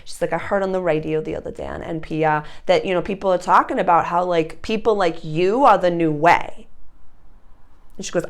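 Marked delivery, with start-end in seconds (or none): 0.3-6.7 imitated thick Boston accent. Restaurant gal telling Sarah about the radio, in a Boston accent. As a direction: play a friend with a Boston accent. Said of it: "such a thick Boston accent".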